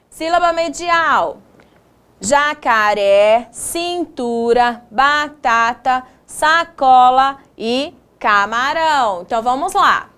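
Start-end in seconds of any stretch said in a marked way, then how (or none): 2.2-9.2 slow, measured word-by-word reading; reading word list. Shown as a demonstration. Teacher reads middle-syllable words to pupils, slow list reading. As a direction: read each word slowly and evenly. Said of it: "eu fiz a leitura pra vocês".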